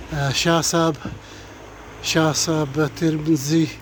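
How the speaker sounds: winded, stumbling over names; breathless after walking; out of breath. Real, not acted. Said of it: "I'm all out of breath, can't even say names properly".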